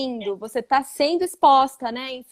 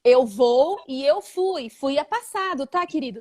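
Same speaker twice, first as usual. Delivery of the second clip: mock teacherly parent. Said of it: "Nós não paramos pra falar para nossas crianças".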